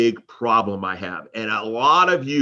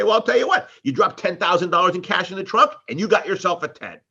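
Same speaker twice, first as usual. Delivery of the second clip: sarcastic; 4 semitones higher than usual. Retold or imitated. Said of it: "my sarcastic humor".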